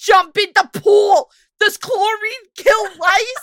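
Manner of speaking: high, loud, frantic panicked shriek. Retelling her mom freaking out at a friend's house, imitating panicked mom. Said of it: "she was freaking out at my friend's house".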